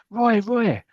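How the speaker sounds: high, eager calling of his name; wife calling his name, overjoyed; excited calling. Retold or imitated. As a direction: call out to him, thrilled.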